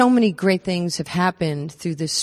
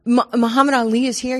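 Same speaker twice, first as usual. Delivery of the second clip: higher, louder, amazed; starstruck disbelief; 7 semitones higher, 5 dB louder than usual. Retold or imitated. Young athlete asking the escort, high and astonished. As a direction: gasp it out, stunned he's there. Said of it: "And I'm like".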